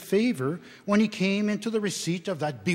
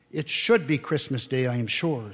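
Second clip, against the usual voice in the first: sarcastic; 3 semitones lower than usual. Acted. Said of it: "cried Missus Cratchit".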